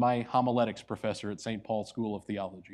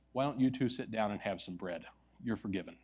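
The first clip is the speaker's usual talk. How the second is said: gentle forgiveness; 3 semitones lower, 6 dB quieter than usual. Retold or imitated. Old manager forgives them.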